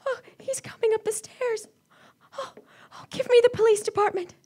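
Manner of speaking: desperate as footsteps approach; woman begging for the police as killer climbs; rising panic. Acted. Killer coming up stairs.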